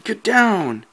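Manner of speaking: high urgent "get down"; urgent hushed warning. Acted. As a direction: warn him to duck, fast and urgent. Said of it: "And then he said".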